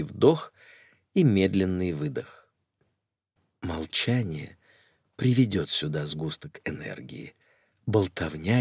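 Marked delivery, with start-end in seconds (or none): none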